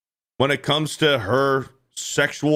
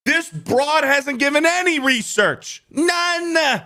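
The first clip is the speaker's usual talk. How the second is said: scornful; 12 semitones higher, slower than usual. Real, not acted. Ranting at the woman.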